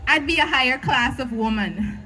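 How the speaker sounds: rhythmic slam poem delivery; spoken word poetry. Acted.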